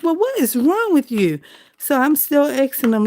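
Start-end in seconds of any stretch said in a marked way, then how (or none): 0.0-1.4 pet talk. Retold or imitated. Asking cat like he'll answer.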